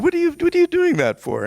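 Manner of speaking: retold shout of disbelief; incredulous shout. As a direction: yell it at your other self. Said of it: "He said".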